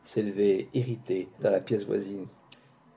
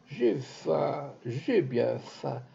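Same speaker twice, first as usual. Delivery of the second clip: monotone plaint; 3 semitones higher, much slower than usual. Acted. Beggar in the street keeps moaning his slow monotone plaint. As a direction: repeat it flat and slow like a tired beggar. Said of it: "sa plainte monotone".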